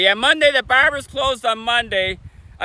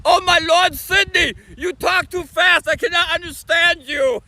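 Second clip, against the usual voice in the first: higher-pitched mock exclamation; imitating a complaining friend; 5 semitones higher than usual. Friend from Germany complaining about fast talk, imitated in a higher, exasperated voice. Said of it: "Condor B L N from Germany, he's always like".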